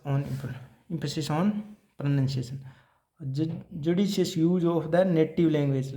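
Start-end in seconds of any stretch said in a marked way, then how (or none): 3.2-5.9 very slow, each word separate; slow dictation. Shown as a demonstration. Teacher dictating a principle to students, slowly. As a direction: spell out the heading slowly. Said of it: "teacher dictating a principle".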